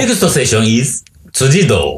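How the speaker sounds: rising English lead-in, then native-sounding 辻堂; Japanese intonation on 辻堂. Retold or imitated. Demonstrating the new English announcement, Japanese-intoned 辻堂. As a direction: drop into Japanese tune for 辻堂. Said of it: "日本のイントネーションになってんだよ".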